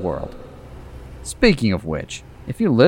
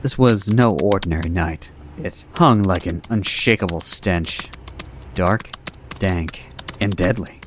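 mock dramatic narration; 2 semitones lower than usual. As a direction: narrate like a grim pulp thriller. Opens skit as dramatic narrator.

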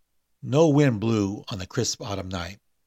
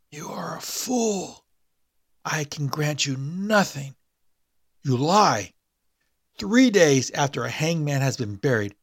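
a corpse croaking up from the abyss; the awakened dead man's dry rasp; dry raspy dead man; 5 semitones higher, 4 dB louder than usual. A narrator's reading.

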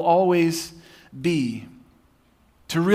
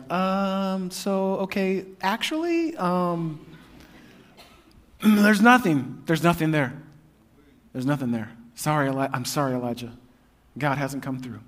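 awkward hesitant assistant; 6 dB quieter than usual. Acted. Assistant reluctantly telling Elijah there's no rain, awkward and hushed. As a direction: break bad news nervously. Assistant delivering bad news.

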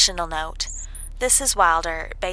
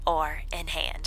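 whispered aside; 4 dB quieter, slower than usual. Acted. Sly aside while alone working.

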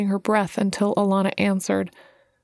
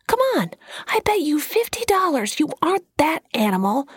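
yelled taunt; 8 semitones higher, faster than usual. A narrator's reading. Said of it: "Shane yelled".

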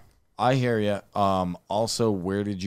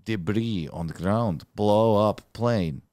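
put-on Russian accent. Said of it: "turn into a Middle Eastern accent".

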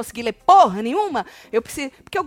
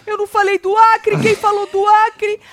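mock outrage; 10 semitones higher, 7 dB louder than usual. Retelling Tonzão asking who mentioned Acre, high mock outrage. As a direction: blurt it as an outraged challenge. Acted outraged challenge continues.

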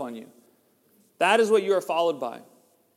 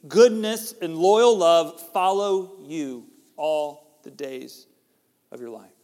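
Goodness and loyal love said slowly, then fading; emphatic certainty; 4 dB louder, slower than usual. Shown as a demonstration. Pastor declaring the psalm's promise, slow and emphatic. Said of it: "we could say with emphatic certainty".

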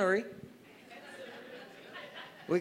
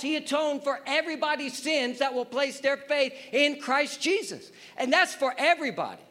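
raised-pitch pulpit proclamation; emphatic preaching; 7 semitones higher than usual. Acted. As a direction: proclaim it to the congregation with conviction.

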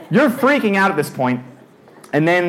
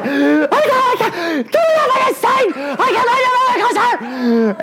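retold very high panicked squeal; high-pitched screaming; slower than usual. Eighth grader locked into the coaster, acted high-pitched screaming. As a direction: shriek in mock terror, far above your usual pitch. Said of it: "I start screaming".

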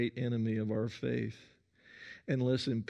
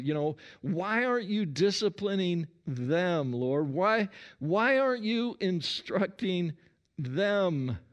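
higher, a whiny, aggrieved demand; complaining prayer; 4 semitones higher than usual. Acted. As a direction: grumble to God about them, building. Acted whining prayer about others.

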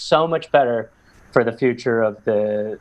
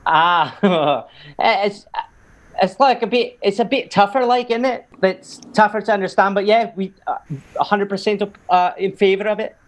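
put-on higher-pitched, hesitant Manchester accent; Mancunian accent; 8 semitones higher than usual. Asked to do Mancunians on Brexit, halting Mancunian accent. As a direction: attempt a Mancunian voter.

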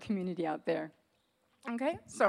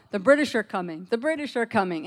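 calling out the alarm, a bit louder; retold yell; 2 semitones higher, 5 dB louder than usual. Rider warning the town, louder mock yell. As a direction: sound the warning like a rider in the night. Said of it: "he yelled out".

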